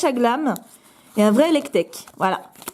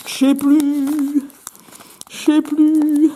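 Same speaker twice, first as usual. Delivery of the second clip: mock despair; 3 semitones higher, much slower than usual. Mock despair about the cards.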